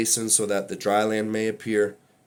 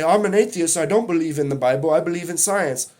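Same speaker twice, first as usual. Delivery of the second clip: mocking an atheist; 4 semitones higher than usual. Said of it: "people who say".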